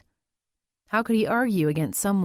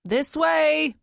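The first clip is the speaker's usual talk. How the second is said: "This way" boomed out higher and louder, falling on "way"; booming; 9 semitones higher, 4 dB louder than usual. Acted. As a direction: bark "This way" like a drill sergeant. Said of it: "Weiss boomed".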